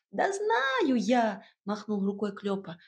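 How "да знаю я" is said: higher, brisk small-creature voice; a bustling little house spirit giving orders. Acted.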